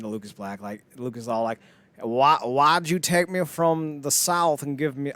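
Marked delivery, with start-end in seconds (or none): 2.0-5.1 slow, bad mock Southern accent; slow, hammed-up Southern accent; terrible Southern accent. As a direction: attempt a Southern accent and do it badly. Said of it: "that's a terrible Southern accent".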